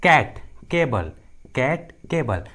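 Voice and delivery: "कैट, केबल" slowly, each opening on a hard k; C pronounced as k. Shown as a demonstration. Teacher showing students the C rule, slow hard-k demonstration. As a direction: say "कैट" and "केबल" separately with a clear k. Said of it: "सी का उच्चारण क होता है".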